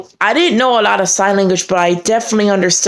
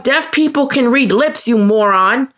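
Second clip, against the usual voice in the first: retold indignant retort, pitched up; pissed off; 5 semitones higher than usual. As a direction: scold a moron in high-pitched outrage. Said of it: "I was pissed".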